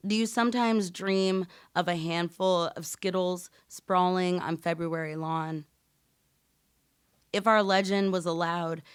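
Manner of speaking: slow, measured poetry reading; solemn slam poetry recitation; spoken word poem. Acted. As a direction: perform the poem with weight and pauses.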